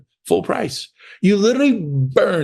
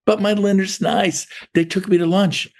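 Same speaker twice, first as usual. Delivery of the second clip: higher-pitched mild mimicking of an objection; mock protest; 5 semitones higher than usual. Agent defending a lender to the coach, mock protest. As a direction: lift it into a pleading little excuse.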